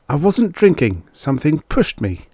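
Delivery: protesting. Acted. Engel pleads with cop.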